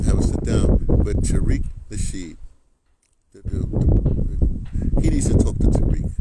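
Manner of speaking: loud unvoiced push on Tariq, drawn out; emphatic shout. Real, not acted. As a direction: hammer the name Tariq home.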